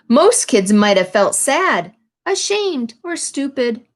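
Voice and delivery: storybook read-aloud, lively phrasing; picture-book narration; reading to children. A narrator's reading. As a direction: read the page to the class.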